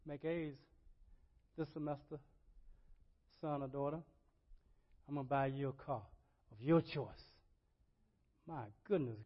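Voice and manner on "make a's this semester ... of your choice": parent's promise. Pretend. Parent promises child a car.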